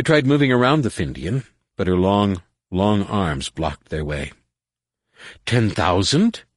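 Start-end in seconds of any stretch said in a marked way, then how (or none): 5.4-6.4 slow, mild boom; a drawn-out booming question. A narrator's reading. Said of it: "the Findian boomed".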